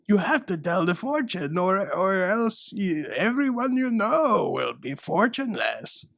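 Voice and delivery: high, hammed-up ghostly warning; spooky ghost voice. Mall ghost warning the granddaughter, hammed-up spooky. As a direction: boom it like a cartoon ghost.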